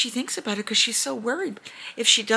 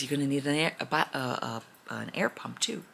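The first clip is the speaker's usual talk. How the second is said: lower, softer dragon voice; 7 semitones lower, 6 dB quieter than usual. Retold or imitated. Dragon telling the girl she needs an air pump, low and soft. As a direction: rumble it low like a gentle dragon.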